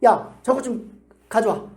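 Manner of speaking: mildly bossy, drawn-out order; retold brusque fatherly demand. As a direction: bark it lightly, slowly. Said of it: "큰 목소리로".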